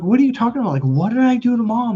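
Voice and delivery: high-pitched exasperated protest; retold frustration. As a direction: re-enact protesting an unfair accusation. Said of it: "it was out of pure frustration".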